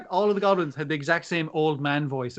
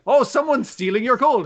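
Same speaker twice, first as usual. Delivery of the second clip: mock alarm; 9 semitones higher, 4 dB louder than usual. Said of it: "he's like".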